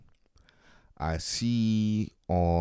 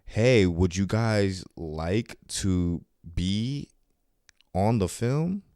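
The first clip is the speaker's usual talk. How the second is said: producer lady; much slower than usual. Retold or imitated. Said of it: "she was like".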